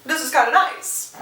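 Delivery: a high, surprised "Oh" then a light pleased line; Kate pleasantly surprised. Retold or imitated. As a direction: lightly play Kate enjoying it. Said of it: "And Kate's like".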